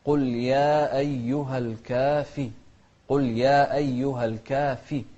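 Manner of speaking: الكافي with a distinct "fi"; clear fa. Shown as a demonstration. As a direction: bring out the ف and its i in الكافي. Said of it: "نوضح الفاء".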